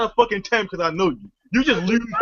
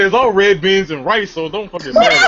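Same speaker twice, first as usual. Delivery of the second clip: laughing retort; 2 semitones lower than usual. Retold or imitated. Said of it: "I said".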